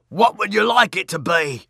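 high, loud sly demon. A narrator's reading. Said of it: "said the demon".

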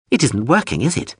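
high, insistent drone voice; pushy drone. Acted. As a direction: nag him like a fussy machine. Drone needles Hawser.

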